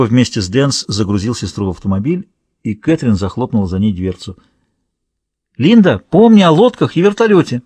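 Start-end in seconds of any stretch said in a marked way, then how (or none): 5.6-7.6 raised, higher calling voice; parting call. A narrator's reading. Samantha calling to Linda as she leaves, raised voice. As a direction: call out after someone who is leaving. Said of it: "крикнула ей на прощание Саманта".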